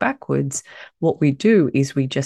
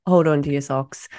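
husky voice. Real, not acted. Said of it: "excuse my very husky voice".

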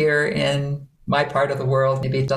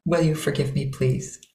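heartfelt water voice. Shown as a demonstration. Teacher asking forgiveness for hurt feelings, tender water voice. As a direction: plead gently from the heart. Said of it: "things your heart might want to say".

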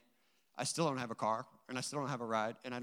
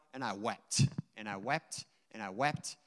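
hushed, moved; 7 semitones lower, 6 dB quieter than usual. Real, not acted. Recalling weeping in the shower.

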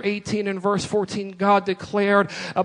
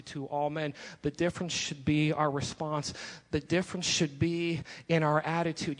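much softer, drawn-in sermon voice; soft reflective teaching; 4 semitones lower, 6 dB quieter than usual. Acted. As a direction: pull the room close and speak gently.

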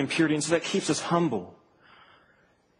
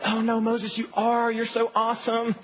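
doting grandma; 5 semitones higher than usual. Acted. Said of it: "He's not like your grandma".

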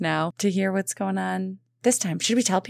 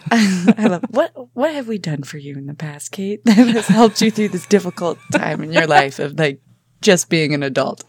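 mock coach voice. Mocking Catherine's coaching tone.

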